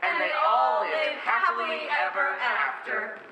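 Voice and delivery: big finish. Acted. Grand fairy-tale ending shouted.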